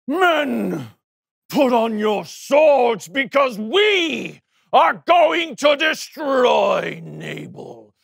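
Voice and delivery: shouted call to arms; rally the men in anger; angry battle cry. Acted. David rallies men for revenge.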